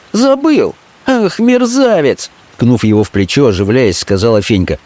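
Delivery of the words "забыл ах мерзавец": very high, slow reproach; a street girl teasing him as a scoundrel; Fenka scolding. Acted. Fenka's voice held.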